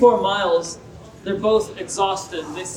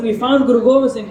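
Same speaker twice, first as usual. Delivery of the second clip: same loud mock shout, now faster; retold scream; 3 semitones higher, 5 dB louder, faster than usual. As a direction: rattle it off louder and quicker in triumph. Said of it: "they start to scream".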